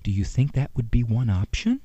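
soft, sugary, ultra-polite parent voice; mock-gentle sweetheart tone; overly gentle parent. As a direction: ask so sweetly it's almost silly. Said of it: "anything more than".

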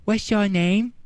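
put-on little kid's question; a toddler quizzing the stranger on the phone. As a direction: ask it like a small child. Toddler asks caller.

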